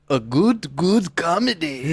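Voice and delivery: exaggerated mock Asian accent, drawn out. Comedian opening his show on the club's name, mock Asian accent. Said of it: "some jokes like that with that accent".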